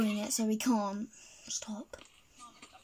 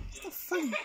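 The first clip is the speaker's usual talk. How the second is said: giggling through the words, held back; stifled giggles; 4 semitones higher, 8 dB quieter, much faster than usual. Real, not acted. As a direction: swallow a laugh as you speak. Trying not to laugh.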